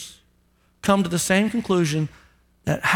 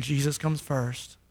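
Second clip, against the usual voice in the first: softer, slow, lower; hushed confession of faith; quiet declaration; 6 semitones lower, 8 dB quieter, slower than usual. Shown as a demonstration. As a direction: say it low and slow like a vow. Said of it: "it starts with you saying".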